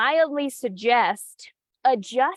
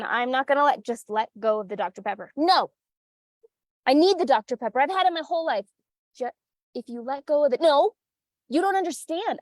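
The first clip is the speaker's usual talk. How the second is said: mock Doctor Pepper client; faster than usual. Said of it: "she said she grew up".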